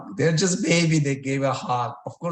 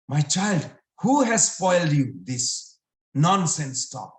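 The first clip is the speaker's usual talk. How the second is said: upset scolding; 3 semitones higher, 5 dB louder than usual. Acted. Upset mother scolds the child.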